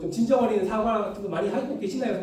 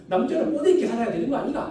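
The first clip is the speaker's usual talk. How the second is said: father's advice; 5 semitones higher than usual. Retold or imitated. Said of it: "이제 이렇게 막".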